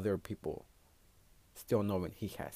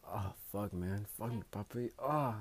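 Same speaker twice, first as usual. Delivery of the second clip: manly moan. Shown as a demonstration. Demoing her manly moan for viewers, a hint of a man's moan. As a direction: play the guy in bed, moaning. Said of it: "I'm gonna be a man".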